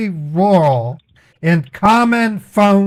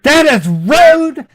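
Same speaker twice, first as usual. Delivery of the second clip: high, loud angry shout; 7 semitones higher, 4 dB louder, slower than usual. Real, not acted. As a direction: yell it at the rep. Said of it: "I apologize for shouting".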